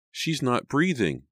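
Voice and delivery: high, slow, anguished cry; high-pitched panicked lament; distressed wail. A narrator's reading. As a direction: wail it in horror, drawing the words out. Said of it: "Sydney wailed".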